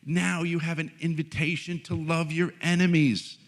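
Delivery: high, loud congratulation; imitated delight. Spiritual director urging love of enemies, imitated with loud delight. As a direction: proclaim it like wonderful news, mock-joyful. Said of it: "She says".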